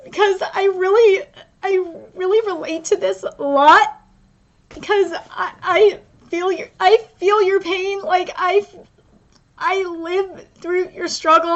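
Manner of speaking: choked up, halting between phrases; tearful. Real, not acted. Reader tells the author they share the pain, tearful. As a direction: push the words out through real tears. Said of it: "it's really making me cry".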